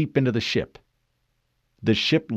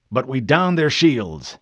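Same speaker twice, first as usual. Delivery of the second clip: slow, firm, louder captain; slightly raised, deliberate command voice; resolute captain; 2 semitones higher, 5 dB louder than usual. Acted. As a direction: make each word count, as a commander would. Captain rallying his officers in battle.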